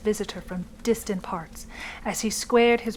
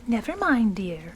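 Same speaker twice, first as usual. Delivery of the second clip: soothingly. Acted. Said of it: "said his wife soothingly".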